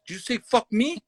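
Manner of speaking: high, affronted question; imitated indignant heckler. Heckler challenges the comic again, indignant imitation.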